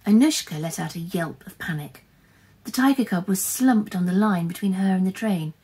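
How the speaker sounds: dramatic storyteller; story narration. A narrator's reading. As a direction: read the tense action out to children with punchy key words. Reads a story aloud.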